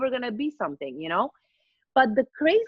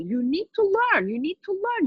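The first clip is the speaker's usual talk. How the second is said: pushy mom; 8 semitones higher than usual. Retold or imitated. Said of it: "she was pushing me".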